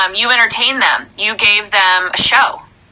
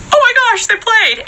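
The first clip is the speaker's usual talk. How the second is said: excited; 10 semitones higher than usual. Retold or imitated. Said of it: "you're like".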